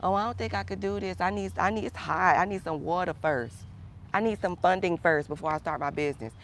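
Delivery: mock whiny complainer. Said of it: "That's, that's that".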